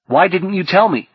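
high, hurt demand; something like rage. Acted. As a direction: demand an answer, wounded and angry. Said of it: "something like rage".

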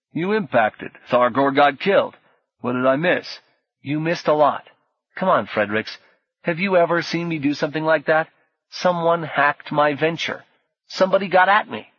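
urgent and upset; insistent, rising, worked up. Acted. Orlando upset, explaining hack.

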